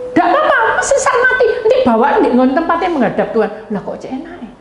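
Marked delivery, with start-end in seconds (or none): 0.1-3.5 high, loud mock tantrum, easing slightly; defiant outburst. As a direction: throw the warning back at full pitch. Agitated person defies advice to calm down. (bantahan ngotot bernada tinggi)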